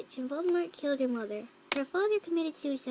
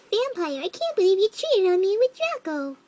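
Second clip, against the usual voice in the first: loud, higher-pitched accusing shout; angry shout; 5 semitones higher, 7 dB louder than usual. A narrator's reading. Girl accusing Vampire of cheating with Draco, angry shout. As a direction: shout it like a betrayed lover. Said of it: "I shouted at him".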